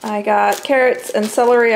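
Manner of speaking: ordinary delivery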